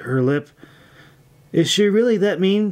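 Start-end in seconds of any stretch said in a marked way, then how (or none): 1.5-2.7 higher-pitched, worried question; small note of alarm. A narrator's reading. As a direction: ask anxiously, voice lifted. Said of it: "she asked worriedly".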